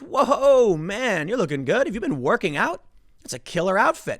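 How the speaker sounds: hearty "Whoa" to a returning guy, lightly voiced; mock hearty greeting. Tucker welcoming a fit man back to the studio, hearty. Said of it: "Tucker goes".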